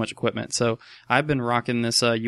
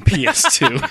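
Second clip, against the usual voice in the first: ordinary talk, nothing marked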